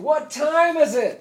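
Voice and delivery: loud, high, slow rally yell; yelling to the crowd. Retold or imitated. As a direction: whip up the crowd with a slow call. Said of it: "And they're going".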